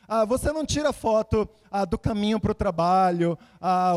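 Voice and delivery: usual speaking voice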